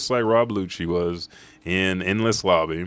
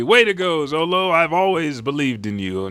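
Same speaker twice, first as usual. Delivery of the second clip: cheering Luffy; 8 semitones higher, 4 dB louder than usual. Retold or imitated. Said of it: "And Luffy".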